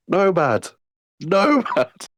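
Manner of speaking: high-pitched call after someone. Acted. Player's character calls after a departing companion, calling out. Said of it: "and I shout".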